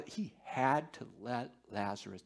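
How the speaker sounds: hushed, breathy near-whisper; solemn whispered aside. Real, not acted. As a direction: drop to a whisper to let it sink in. Moved, stressing Lazarus's death.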